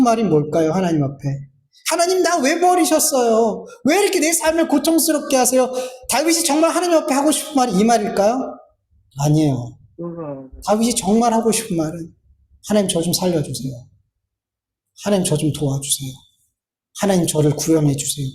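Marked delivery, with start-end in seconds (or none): 1.9-5.7 high, pressing complaint to God; reproachful lament. Retold or imitated. Preacher as suffering David asking God why, reproachful complaint. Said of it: "탄식했지만 그 탄식 뒤에". 12.7-18.3 low, subdued plea for help; earnest prayer. Retold or imitated. Preacher as David truly asking God for rescue, subdued plea. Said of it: "이 기도라는 거예요".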